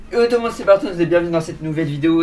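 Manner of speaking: bright, loud intro; excited greeting. Real, not acted. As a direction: greet the viewers with energy.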